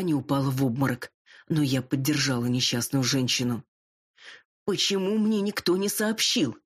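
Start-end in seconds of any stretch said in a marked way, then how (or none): 4.6-6.6 mildly strained, higher-pitched question; a touch of a shocked croak; hoarse croak. A narrator's reading. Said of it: "прохрипела она". (слегка хрипло, потрясённо)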